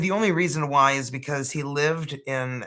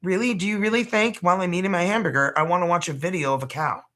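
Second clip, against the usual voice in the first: incredulous; 5 semitones higher, faster than usual. Retold or imitated. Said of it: "I'm like".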